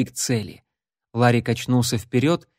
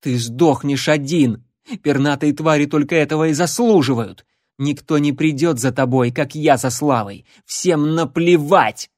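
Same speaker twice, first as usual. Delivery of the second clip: desperate outburst; 3 semitones higher, 4 dB louder than usual. Acted. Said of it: "отчаянно бросила ему в лицо".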